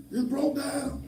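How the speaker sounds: high-pitched tearful child imitation; imitated crying grandkid. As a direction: mimic a child wailing the news. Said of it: "crying, calling me".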